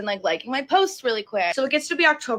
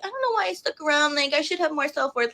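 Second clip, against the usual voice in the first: mock self-pity; 5 semitones higher than usual. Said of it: "I could lie and be like".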